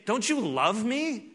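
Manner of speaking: a mother begging her son; worried mother. Retold or imitated. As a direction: plead like a frightened mother. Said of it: "it's like her saying".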